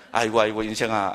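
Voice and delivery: low, groaning lament; mock pity. Lamenting a friend's pointless life, mock pity. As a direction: sigh pityingly at a hopeless friend.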